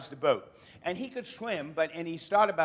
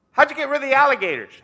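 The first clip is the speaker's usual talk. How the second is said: panicky; 8 semitones higher, 7 dB louder, faster than usual. Acted. Tourist treading water, panicking.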